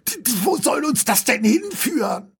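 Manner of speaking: ordinary delivery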